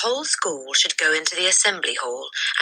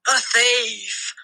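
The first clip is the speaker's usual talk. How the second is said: high outraged cry; screamed; 9 semitones higher than usual. A narrator's reading. The headmistress screams at the boy. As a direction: shriek the accusation. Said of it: "the Trunchbull screamed".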